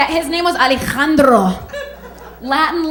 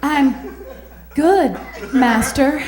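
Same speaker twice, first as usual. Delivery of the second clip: 1 swooning; much slower than usual. Pretend. Her swooning reply.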